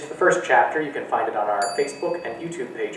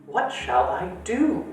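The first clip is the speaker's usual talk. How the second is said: whiny repeat; 9 semitones higher, slower than usual. Acted. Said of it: "repeated Coraline".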